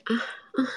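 a light moan acted out while retelling; two short imitated moans; mild imitated moan. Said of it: "这样呻吟着".

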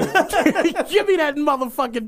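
high, loud cocky Trump swagger; mock Trump. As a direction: swagger in like a boss grabbing the pen. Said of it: "Trump walked in the White House like".

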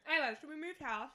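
eating while talking; talking through a mouthful of food; mouth full. Real, not acted. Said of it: "sorry, I'm eating right now".

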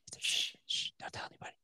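hushed secret whisper. Acted. Joking about a secret show.

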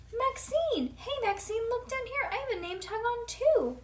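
put-on very high, eager kid voice; squealed, eager showing off; excited calling out. A narrator's reading. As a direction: call up to a grown-up for attention. Child calling up to Maxine.

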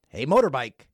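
high, loud yell of "you're done"; shouted catchphrase. Acted. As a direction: bellow it out the window at the motorbike. Yells catchphrase at noisy motorbike.

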